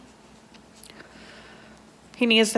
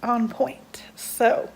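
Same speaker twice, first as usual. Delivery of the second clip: whisper; much slower than usual. Real, not acted. Nervous check-in, voice drops.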